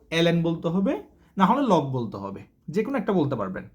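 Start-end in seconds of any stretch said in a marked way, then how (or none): 0.1-0.4 ln spelled out as letters, el-en; correct el-en. Shown as a demonstration. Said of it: "সঠিকটা আপনাদেরকে বলে দিলাম".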